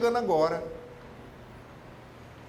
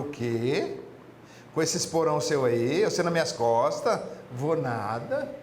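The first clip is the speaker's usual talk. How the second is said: scoffing frog; 4 semitones lower, slower than usual. Acted. Frog refuses scorpion in fable.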